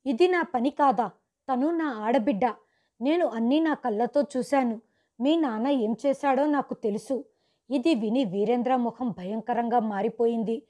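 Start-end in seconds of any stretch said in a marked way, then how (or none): 0.1-7.2 a mild acted yell at him; mild shout. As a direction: shout back at the husband, held in, not full force. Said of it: "నేను గట్టిగా అరుస్తూ".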